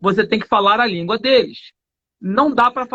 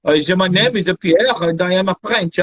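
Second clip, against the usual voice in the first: put-on slow, low English with a French accent; 5 semitones lower, slower than usual. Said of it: "ele fala inglês assim". (inglês com sotaque francês, lento e grave)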